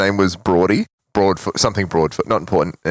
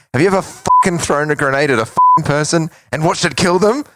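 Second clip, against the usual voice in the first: angry confrontation; 8 semitones higher, 3 dB louder than usual. Retold or imitated.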